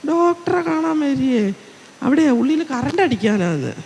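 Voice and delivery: patient scoffs at a naive fellow patient, with a mocking laugh. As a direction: retell the man's mocking laugh at the other patient. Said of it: "അപ്പോൾ അയാൾ ചിരിച്ചത്ര".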